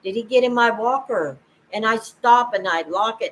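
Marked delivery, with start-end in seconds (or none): 0.0-1.4 mock panic. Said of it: "And I start to panic".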